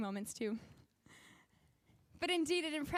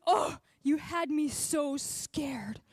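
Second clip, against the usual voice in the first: whispered fright; 2 semitones higher, 4 dB louder, much slower than usual. Retold or imitated. Friend tells her his fright.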